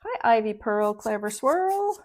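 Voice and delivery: sweet high voice to a pet. Real, not acted. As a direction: coo at the little one. Greeting her pet sweetly.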